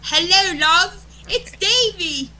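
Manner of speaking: high, loud sing-out greeting, last words drawn out; Davey. Retold or imitated. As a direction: put on a cheery caller's high voice. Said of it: "I hear".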